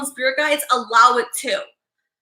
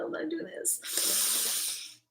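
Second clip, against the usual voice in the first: resolve; 16 dB quieter, slower than usual. Retold or imitated. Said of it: "I said".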